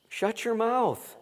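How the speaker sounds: high, slow, drawn-out rebuke; slow mocking scold, pitched high; blunt rebuke. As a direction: stretch it out like a scolding. Preacher paraphrases Paul bluntly.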